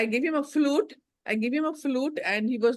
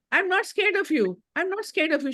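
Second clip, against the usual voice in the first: mock affirmation; 7 semitones higher than usual. Grandmother mimicking daughter-in-law's affirmation to child, mildly mocking. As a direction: imitate a mother repeating an affirmation. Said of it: "She's doing her affirmations".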